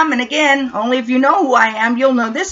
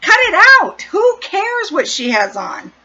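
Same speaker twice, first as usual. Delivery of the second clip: mock scolding the gossiping women; jokey shout-down; 7 semitones higher than usual. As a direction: bark it high like a half-joking scold. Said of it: "just me trying to be funny and going".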